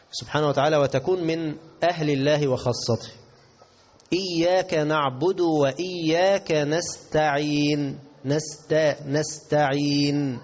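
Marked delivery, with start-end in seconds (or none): 4.1-10.4 slow, drawn-out tajweed; Quran recitation. Shown as a demonstration. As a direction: recite deliberately with long held endings. (ترتيل بطيء ممدود)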